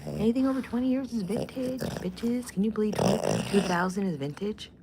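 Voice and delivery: can-you-believe-it mock outrage; incredulous reaction. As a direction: act out being scandalized and incredulous. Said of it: "I'm like".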